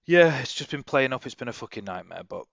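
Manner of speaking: holding back hiccups; talking through hiccups; suppressing hiccups. Real, not acted. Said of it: "Sorry, I've got hiccups".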